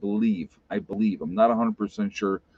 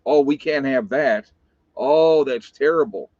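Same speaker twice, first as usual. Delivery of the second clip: louder, hammed-up dismay; mock outrage; 2 semitones higher, 5 dB louder than usual. Mocking people who cave in to the loudest, mock outrage. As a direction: imitate scandalized people, exaggerating the horror.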